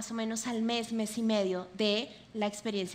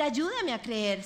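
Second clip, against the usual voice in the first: slow plea; slower than usual. Shown as a demonstration. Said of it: "y decir".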